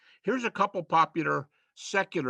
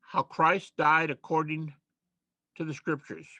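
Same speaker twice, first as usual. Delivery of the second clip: slow quote. Shown as a demonstration. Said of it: "here's the quote".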